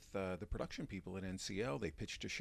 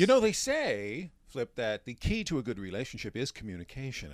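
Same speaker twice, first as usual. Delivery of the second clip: therapist voice; 4 semitones higher, 10 dB louder than usual. Pretend. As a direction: talk him down like a calm shrink. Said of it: "the, my therapist voice".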